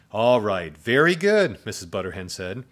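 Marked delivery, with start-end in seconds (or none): 0.1-1.6 high, loud teacher approval; delighted praise. A narrator's reading. Teacher praises counting zombies, delighted and loud. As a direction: praise the class, voice leaping up.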